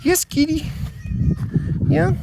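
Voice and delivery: squeaky high voice for the kitty; high pet voice. Real, not acted. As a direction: coo at the cat, way up high. Talking to his cat.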